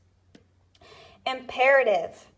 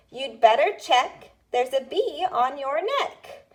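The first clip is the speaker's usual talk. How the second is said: dictation read; 4 semitones higher than usual. Shown as a demonstration. Teacher reading a dictation rhyme to students, clear. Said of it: "the first one is".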